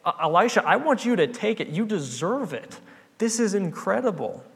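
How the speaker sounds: healed man thrilled to thank the prophet; ecstatic thanks. Retold or imitated. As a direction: press the gift on him with joy. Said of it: "he is just ecstatic".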